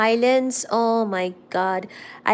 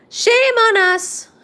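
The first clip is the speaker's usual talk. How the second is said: mock shame; 13 semitones higher, 8 dB louder, slower than usual. Mock scolding herself.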